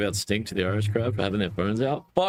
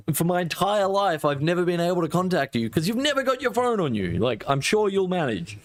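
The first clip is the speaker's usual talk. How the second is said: raised, higher, exasperated lecture to mum; exasperated retort; 8 semitones higher than usual. Retold or imitated. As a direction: scold her in disbelief. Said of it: "And I was like".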